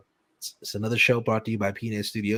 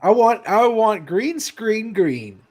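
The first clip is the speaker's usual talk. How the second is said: excited demand; 10 semitones higher, 5 dB louder, much slower than usual. Acted. Playful demand.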